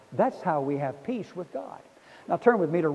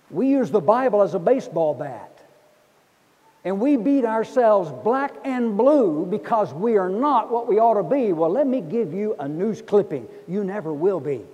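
preaching at full force; 4 semitones higher, 7 dB louder than usual. Acted. Preacher to congregation, on peace with God, loud preaching. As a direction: lean in and preach it out big.

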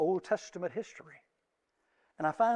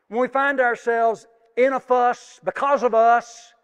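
loud, higher, rising fervent sermon climax; full-force preaching; 7 semitones higher, 12 dB louder than usual. Acted. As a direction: drive the question home to the church.

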